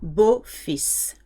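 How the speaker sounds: "Beau-fils" ending in an audible S; sounded final S. Shown as a demonstration. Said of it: "you do hear it in this word".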